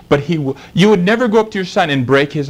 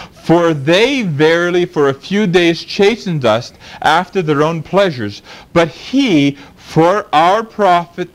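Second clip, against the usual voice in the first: scripture reading. Acted. Preacher reading Hebrews to the congregation, measured. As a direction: read the verses with reverence.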